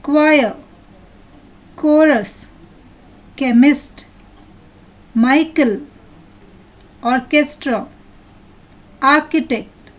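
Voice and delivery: each word alone, its CH said as a hard "k"; word-list pronunciation. Shown as a demonstration. Teacher reading out the next picture's words, careful hard-k pronunciation. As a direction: read "choir" to "architect" one by one, with pauses. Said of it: "I'll read out".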